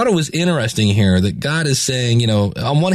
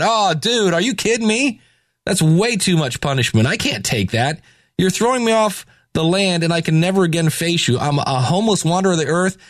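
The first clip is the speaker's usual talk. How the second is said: higher-pitched whining complaint; whiny protest; 6 semitones higher than usual. Retold or imitated. Cain whining to God about his punishment, higher-pitched. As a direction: whine like a kid who got caught.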